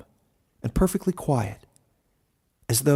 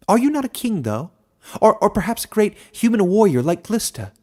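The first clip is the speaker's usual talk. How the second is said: much higher, louder squeaky creature voice; squeaking hedgehog; 10 semitones higher, 5 dB louder than usual. A narrator's reading. Hedgehog eagerly asking if the human is a king, squeaky. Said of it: "squeaked another hedgehog".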